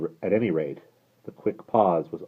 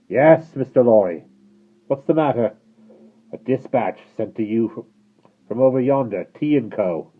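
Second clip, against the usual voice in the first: loud, higher call from afar; distant call; 6 semitones higher, 9 dB louder than usual. Acted. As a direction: call through the fog. Rider calling from the mist.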